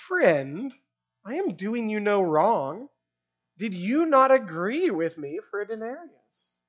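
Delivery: measured reproof, "Friend" rising at the end; mild rebuke. Acted. Master replies to a grumbling worker, mildly rebuking. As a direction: patiently challenge with a touch of reproach. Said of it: "like a mild term of rebuke".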